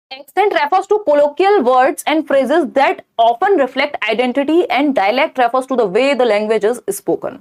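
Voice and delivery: slow, deliberate question read-out. Acted. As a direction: read each word out carefully for the class. Reads an answer option.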